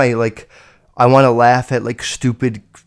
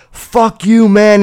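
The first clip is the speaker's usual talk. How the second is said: imitating an angry kid, higher pitched; mock angry yell; 7 semitones higher, 5 dB louder, much slower than usual. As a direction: throw the insult out high, as a retold taunt. Retells kid cursing him out.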